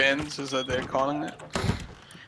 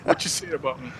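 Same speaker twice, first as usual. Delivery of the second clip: loud, higher streetwise challenge; tough cat voice; 4 semitones higher, 10 dB louder than usual. Retold or imitated. Voicing the cat squaring up, loud. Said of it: "It's like".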